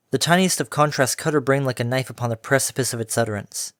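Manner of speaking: ordinary delivery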